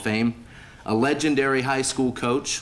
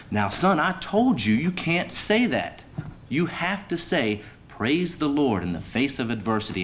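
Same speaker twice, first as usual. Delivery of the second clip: mock stern preacher father; scolding preacher; 4 semitones higher than usual. Preacher scolds son in joke.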